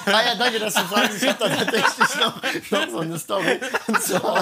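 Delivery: high, bubbly and giggly; cute anime streamer. Pretend. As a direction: squeal it like a cute anime girl. Acts as cute Senpai after cue.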